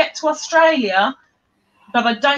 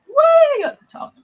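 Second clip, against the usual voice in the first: much higher, louder put-on Scouse accent; Liverpool accent; 5 dB louder than usual. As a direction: do your spot-on Liverpool accent. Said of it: "Lee's accent, the Liverpudlian accent".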